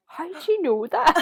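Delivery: amazed Dan. Retold or imitated. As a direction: gasp it out in disbelief. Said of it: "he's just like".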